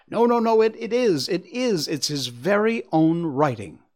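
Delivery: high, loud, tumbling denial; insistent protest. Acted. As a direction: rush out the no's, begging him to believe. Wife insists it is his writing.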